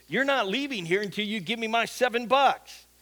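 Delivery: mild mock threat, firmly stressed. Homeless guy blocks Nathan from leaving, mildly threatening. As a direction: retell a scammer's growing threat. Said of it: "a little louder and a little more threatening".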